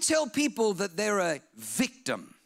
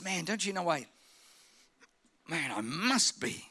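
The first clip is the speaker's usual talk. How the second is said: put-on earnest teen; 3 semitones lower, 6 dB quieter than usual. Earnest teen Jesus voiced.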